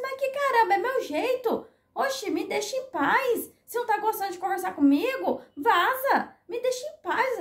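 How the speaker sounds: high-pitched exasperated retort; worked-up irritation. Retold or imitated. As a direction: reenact snapping back at a nagging corrector. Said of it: "dá nervoso, meninos". (irritação encenada, em tom agudo)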